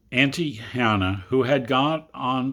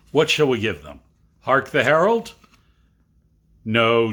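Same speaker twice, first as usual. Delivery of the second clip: eager; 6 dB louder than usual. Acted. Children argue carols.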